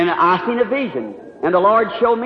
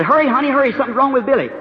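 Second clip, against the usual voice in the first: higher, urgent call to a wife; retold urgency; 4 semitones higher, faster than usual. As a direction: hurry her along in mild alarm. Urging wife in retold emergency.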